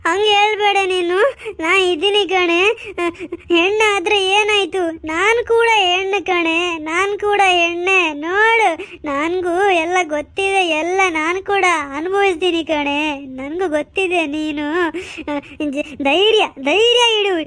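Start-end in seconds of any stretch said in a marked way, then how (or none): 5.1-13.2 tearful comfort. Acted. Mother consoling, cry heard.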